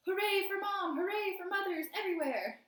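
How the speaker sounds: high, loud cheering shout; inner shout. A narrator's reading. Nick cheering his mom inside his head, high and loud. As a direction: cheer it out triumphantly. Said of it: "in his mind he shouted".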